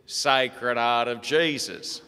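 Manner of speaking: slow, clearly spelled out. Retold or imitated. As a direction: say each word slowly and clearly. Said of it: "slow it down".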